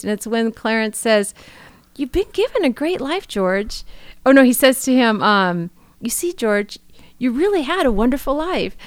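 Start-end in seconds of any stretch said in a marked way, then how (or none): 2.0-3.8 imitating Clarence. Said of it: "He sounded like George Bailey ... Clarence". 6.0-8.7 imitating Clarence. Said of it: "he sounded just like Clarence".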